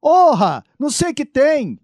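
high, whiny grumbling; whiny complaint. Acted. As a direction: grumble like the overworked one. Acted complaining reporter skit.

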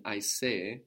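"I say" as Swahili "aisee", accented on the first E. Shown as a demonstration. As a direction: stress the first half of the long final vowel in "I say". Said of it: "we have the accent on the first E".

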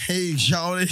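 mock shout to a friend named Charlie; calling out. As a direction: call it out across a crowd. Shouting greeting in retold scene.

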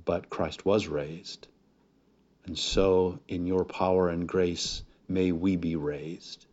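earnest, unhurried pastoral prayer. Acted. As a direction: reverent closing prayer over the congregation. Pastor prays before the message.

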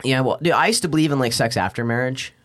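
ordinary talk

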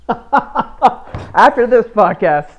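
slow, laughing start. Real, not acted. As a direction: laugh the words out. Laughing at own podcast.

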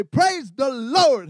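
drawn-out churchy greeting on the phone. Pretend. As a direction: answer the spam caller like a saint. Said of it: "I'll say".

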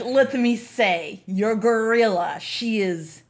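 hammed-up Eastern European accent, drawn out; slow, savoring Eastern European accent, sinking to a whisper; over-the-top Eastern European admirer, fading into a whisper; Tim Curry. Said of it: "Tim Curry with an Eastern European accent".

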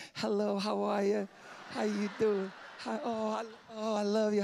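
fake church greeting. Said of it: "when you come into the church".

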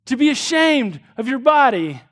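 dad begging his daughter to see the lie; pleading father. Retold or imitated. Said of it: "he says".

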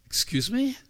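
high, startled Excuse me; mock disbelief. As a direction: play up the shock. Jesus reacts with disbelief.

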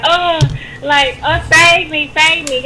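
mock damsel in distress; playfully hammed-up cries for help; fluttering cries for help. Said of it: "like we the damsel in distress".

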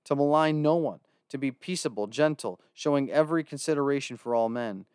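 measured Bible reading voice; scripture reading. Acted. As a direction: read the scripture aloud with reverence. Reads scripture aloud.

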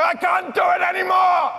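high, loud mock despair; loud, high hammed-up despair; exasperated cry. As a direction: wail it like a worn-out writer. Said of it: "and you go".

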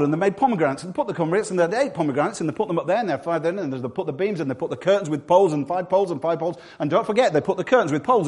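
breathless-sounding list that keeps tumbling on; run-on recital. Acted. Preacher mimics endless temple building details, run-on recital. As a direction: rattle off detail after detail without a break.

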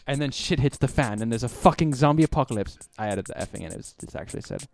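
put-on British BBC announcer accent read; British accent like a BBC presenter. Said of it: "read it like a B B C announcer".

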